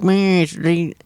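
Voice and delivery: exaggerated Australian vowels; Australian pronunciation. Shown as a demonstration. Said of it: "I have to go, like, really".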